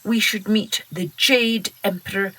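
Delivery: put-on wise old duck. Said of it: "The oldest and wisest duck agreed".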